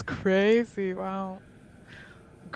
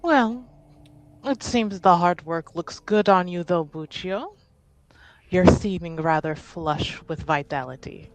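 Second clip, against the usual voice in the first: lightly voiced, courteous noblewoman; polite, measured teasing in a formal register; a hint of refined in-character poise; genteel lady character; 4 dB louder than usual. Plays a genteel character greeting Buccio.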